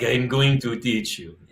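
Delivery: put-on slow Russian-accented threat; mock Russian accent. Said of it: "some guy in Russia who's like".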